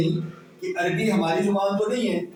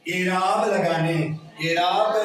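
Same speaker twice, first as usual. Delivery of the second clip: slow repeat. Shown as a demonstration. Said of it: "کیا پڑھتے ہیں؟".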